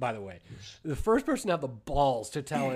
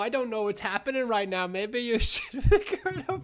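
mock strategist; 9 semitones higher, 4 dB louder than usual. Mocking Italian engineer on radio.

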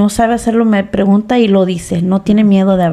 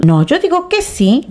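high daughter voice; 8 semitones higher than usual. Retold or imitated.

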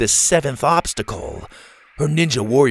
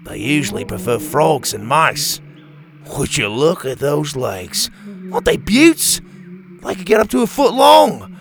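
lightly voiced eager expert, higher at times; enthusiastic scientist; 3 semitones higher than usual. Doctor Rex telling Bo about tarantulas, eager lightly voiced expert. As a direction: gush about the spiders' legs.

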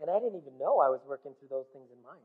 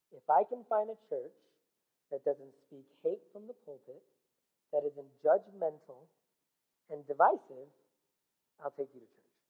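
patiently offering terms, kind but firm; said very nicely; 3 semitones lower, 5 dB quieter than usual. Retold or imitated. Telling the boy he'll go if the church is kind, said nicely. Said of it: "So I said very nicely".

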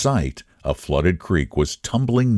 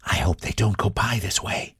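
softer, hushed fretful lady; whispered worry; 5 dB quieter than usual. A narrator's reading. Lady hiding in the car, hushed and worried. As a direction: hush it so they won't hear. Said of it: "whispered Missus Dunning".

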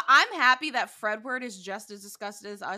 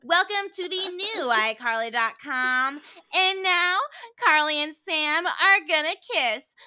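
higher-pitched showy host greeting; mock-grand puppet emcee, drawn out; puppet show host; 5 semitones higher, 9 dB louder than usual. Acting out the puppet master's parody.

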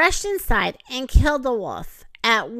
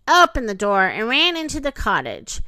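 ordinary delivery, nothing marked

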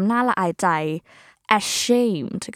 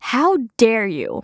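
slow model phrase; much slower than usual. Shown as a demonstration. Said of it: "คำต่อไป".

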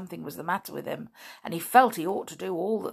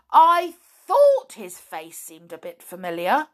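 louder, raised exclaiming; excited realization; 3 semitones higher, 6 dB louder than usual. Acted. Binkle realizing the joke to Flip, excited. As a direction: burst out with it.

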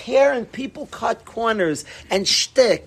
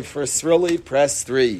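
phone menu recording; 5 semitones lower than usual. Pretend. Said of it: "the phone thing".

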